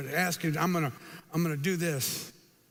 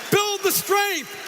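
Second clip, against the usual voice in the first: emphatic rallying call; 9 semitones higher, slower than usual. Real, not acted. Speaker urging the audience to build strength, driving it home. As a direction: lean hard into the point like a coach.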